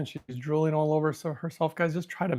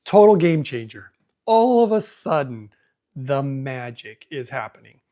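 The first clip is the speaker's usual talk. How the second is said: amazed report; 8 dB louder, slower than usual. Retold or imitated. Doctor reporting back months later on his new machine, amazed. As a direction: imitate a bowled-over doctor, stretching out each word.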